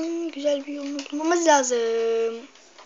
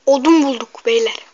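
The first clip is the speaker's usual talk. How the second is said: excited; 11 dB louder than usual. Real, not acted. Excited find of wood in game.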